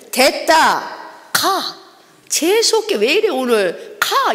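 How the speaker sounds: dismissive gangster snapping go away; gruff brush-off. Retold or imitated. Gangster telling the preacher to get lost, dismissive. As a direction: wave her off like a thug.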